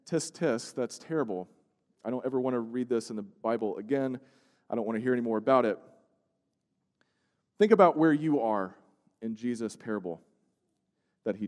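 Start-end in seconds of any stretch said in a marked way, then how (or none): 0.1-5.8 dismissive tut-tut. Retold or imitated. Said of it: "instead of saying".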